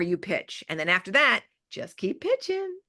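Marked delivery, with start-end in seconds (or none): 1.7-2.8 lifted high, slow and drawn out; catchphrase. Acted. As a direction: sing it up high like a motto.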